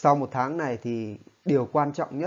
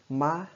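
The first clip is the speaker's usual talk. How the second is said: "Ma" said like Vietnamese má, pitched up; rising acute tone; 2 semitones higher than usual. Shown as a demonstration. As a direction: give "Ma" a rising tone to mark stress. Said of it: "có thể thêm dấu sắc vào đây".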